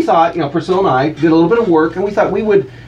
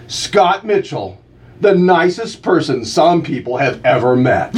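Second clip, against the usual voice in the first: radio slogan; slower than usual. Acted. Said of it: "there's some backstory to this one".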